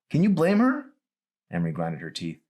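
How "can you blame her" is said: high, loud challenge; sharp retort. Acted. Daughter defending her mother, high and loud. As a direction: throw the question back at him.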